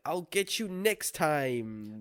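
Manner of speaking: lightly voiced cartoon villain, drawn out; a slow, half-played villain's threat. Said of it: "where the villain's like".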